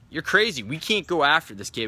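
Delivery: mock disbelief, pushing back on a wild plan; incredulous protest. Assistants protest the coach's plan.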